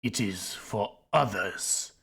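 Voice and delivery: slow, drawn-out serpent voice; snake voice. Acted. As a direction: stretch each word like a snake. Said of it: "be doing the snake impression the whole time".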